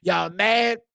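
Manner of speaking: a real rant, going hard at the doubters; heated rant. Real, not acted. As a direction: vent it all out, punching each y'all mad. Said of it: "was one hell of a rant".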